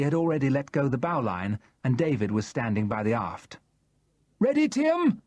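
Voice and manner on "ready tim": much higher, louder shout across the dock; a friendly shouted question; shouted call. Acted. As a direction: call out over the crowd. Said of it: "he shouted".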